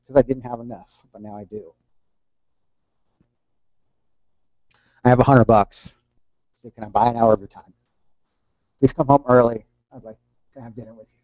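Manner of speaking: halting, moved reading that drops away at the end; getting emotional. Real, not acted. Reader touched by son's plea to father, getting emotional. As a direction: hold back real feeling between long pauses. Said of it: "That gets a little deep with me".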